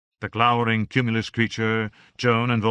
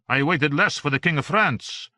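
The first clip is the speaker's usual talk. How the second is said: Voltaire, higher and wry; a dry, amused little philosopher; 6 semitones higher, 4 dB louder than usual. A narrator's reading. Voltaire's line.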